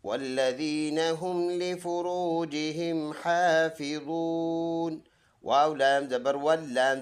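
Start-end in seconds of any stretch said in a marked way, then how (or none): 0.0-5.0 slow, melodic tilawat of the verse; Quran recitation. Acted. Teacher recites the verse for his viewers, slow melodic tilawat. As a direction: chant each word slowly and evenly.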